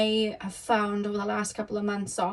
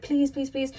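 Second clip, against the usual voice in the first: nagging please; 4 semitones higher than usual. Retold or imitated. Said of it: "'Cause I'd be like".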